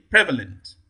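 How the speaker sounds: prevalent with PRE prominent, falling after; stress on first syllable. Shown as a demonstration. Teacher models option A, prevalent stressed on PRE. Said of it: "primary stress falls on the first level".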